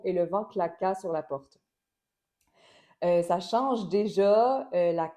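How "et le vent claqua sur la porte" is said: Et le vent claqua sur la porte, accents on vent, -qua and porte; with word stress. Shown as a demonstration. Teacher repeating the accented sentence. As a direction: lean on the last syllable of each word. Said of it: "si j'ajoute seulement les accents".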